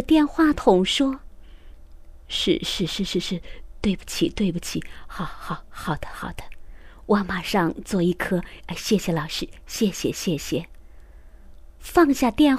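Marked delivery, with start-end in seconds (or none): 2.3-10.7 much softer, nervous near-whisper, fast apologies; hurried yes-yes into the phone, anxious; nervous phone talk. Acted. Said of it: "爸爸很紧张". (爸爸紧张地对着电话连声应答)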